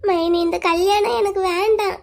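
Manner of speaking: slow, tearful pleading. Acted. Crying girl tells sister-in-law she doesn't want this marriage, tearful. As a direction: plead slowly, on the edge of crying. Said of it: "நீ எதுக்குடா அழுகுற".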